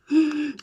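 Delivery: loud sharp gasp of delight. Real, not acted. Loves the lipstick.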